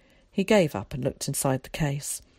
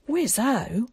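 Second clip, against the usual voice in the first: yelled; 7 semitones higher than usual. A narrator's reading. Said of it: "he yelled".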